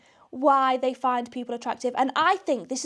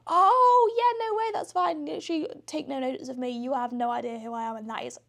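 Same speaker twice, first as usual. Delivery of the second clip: flustered backpedal; 3 semitones higher than usual. Retold or imitated. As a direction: gush then trail off, mortified. Flustered backpedalling after the snub.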